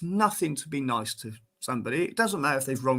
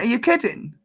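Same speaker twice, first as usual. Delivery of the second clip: retold disbelief; 10 semitones higher, 4 dB louder than usual. Bowler retells his outburst at the umpire, high incredulous. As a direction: pitch jumps way up in mock outrage. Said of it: "I went".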